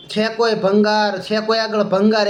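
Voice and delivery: slow, drawn-out hawker's cry, lightly voiced; a mild mock call up to the balconies, stretched slowly; scrap dealer's street call. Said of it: "એ રાયડું નાખતો હતો". (ભંગારવાળાની ધીમી, લાંબી ખેંચેલી હળવી બૂમ)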